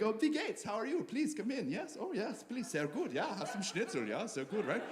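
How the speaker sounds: soft, lilting Austrian accent; sing-song Austrian, as if smiling; friendly Austrian accent. Shown as a demonstration. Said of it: "just sounds friendlier".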